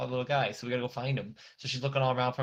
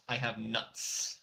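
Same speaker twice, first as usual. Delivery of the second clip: a lightly voiced tanuki; 7 dB quieter, slower than usual. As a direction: drag it out like a sleepy little animal. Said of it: "our Tanuki friend who's like".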